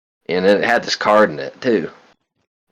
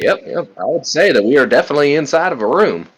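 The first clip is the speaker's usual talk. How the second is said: high sarcastic voice; 5 semitones higher than usual. Acted. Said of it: "Graham looks at you and goes like".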